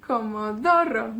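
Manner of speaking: Comodoro in a Welsh accent, DO stressed. Shown as a demonstration. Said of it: "con acento galés".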